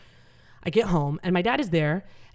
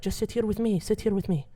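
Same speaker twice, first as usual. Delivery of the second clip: soft dad; 3 semitones higher, 6 dB quieter than usual. Retold or imitated. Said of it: "my dad is like".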